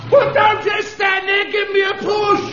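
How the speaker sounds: yelling at the men to come and push; shouting for help. Acted. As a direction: bawl for a push. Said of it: "stop shouting".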